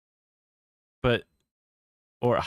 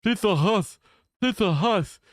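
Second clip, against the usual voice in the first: higher, lisping mock mouthful; mouth full; 9 semitones higher than usual. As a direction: say it like your mouth is stuffed with hot pizza. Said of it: "somebody with their mouth full and they go like".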